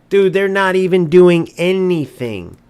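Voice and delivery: exasperated outburst at the players. Real, not acted. Repeats the complaint louder.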